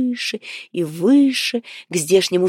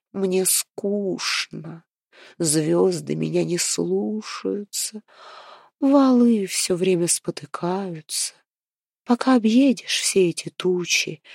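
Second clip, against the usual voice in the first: lightly voiced sulky moon queen; a hint of a weary, grumbling queen; bored moon queen. Moon queen's long bored complaint.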